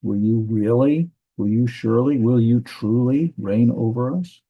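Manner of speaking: rising question on "really", "surely", "truly reign over us"; questioning tune. Shown as a demonstration. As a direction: lift the end of "Will you really" and each question after it. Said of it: "It's asking a question".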